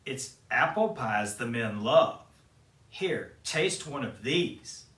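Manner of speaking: lightly voiced sly crone, slowing; disguised queen offering the apple, mildly crone-like; sly old woman. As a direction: tempt her with the apple. Peddler offers poison apple.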